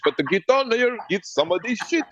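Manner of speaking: high, hammed-up Russian vendor voice with laughter; playing a Russian hawker laughing through it; mock Russian accent. Mocking Russians hawking barbecue, in a high put-on Russian accent. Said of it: "They over in Russia like".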